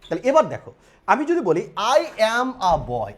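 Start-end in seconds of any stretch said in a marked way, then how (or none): 1.8-3.1 each word drawn out very slowly; slow correct model sentence. Shown as a demonstration. Teacher showing students the correct English sentence, slowly. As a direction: spell out the right sentence word by word. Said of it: "definitely আমি জীবনেও বলি না".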